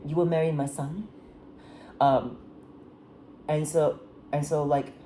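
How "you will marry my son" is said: lightly attempted French accent; a tentative go at a French-accented queen. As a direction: try a slight French accent. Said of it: "I'm gonna try to do a French accent".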